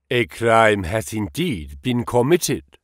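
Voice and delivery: put-on lightly held German accent, modest and earnest; a touch of German, humble about his friend. Engels credits his late friend Marx in a light German accent. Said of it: "with a German accent".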